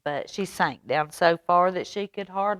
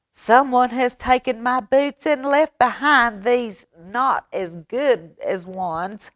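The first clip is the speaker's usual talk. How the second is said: higher, louder wail that slows down; 7 semitones higher, 5 dB louder than usual. Acted. Baby Bear mourning his lost boots, high wailing. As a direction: wail it like a hurt little cub. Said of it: "she wailed".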